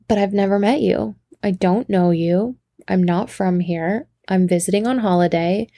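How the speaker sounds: polite denial in a lightly faked British accent; put-on British accent. Tourist denying she knows the bar regular, put-on British accent. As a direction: apologise with a hint of British. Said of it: "you know, in my accent".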